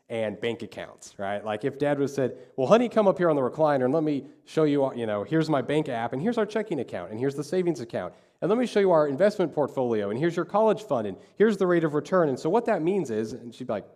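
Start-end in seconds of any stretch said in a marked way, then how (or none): 2.6-12.3 lightly voiced dad, piling item on item; eager dad explaining. Dad showing daughter the family accounts, lightly acted eager explaining. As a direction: imitate a dad running through a list, pitched up.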